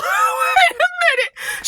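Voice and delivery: high, slow wait a minute; self-interrupting. Real, not acted. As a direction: catch yourself mid-sentence. Catches herself mid-story.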